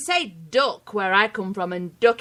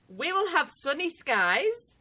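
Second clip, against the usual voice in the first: slow, quiet British read of the weather; a quiet British weather line; 5 semitones higher, 6 dB quieter, slower than usual. Shown as a demonstration. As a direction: say it in a British accent, slowly. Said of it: "get you to say".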